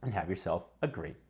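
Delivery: tired, hoarse voice that is going. Real, not acted. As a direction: speak through a worn-out throat. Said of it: "Even though I'm losing my voice".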